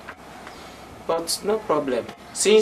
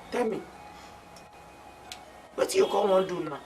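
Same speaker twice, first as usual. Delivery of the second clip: higher, quicker repeat of the question; pressing question; 5 semitones higher, 5 dB quieter, faster than usual. Acted. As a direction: press for an answer, fast and raised. Friend presses again for an answer.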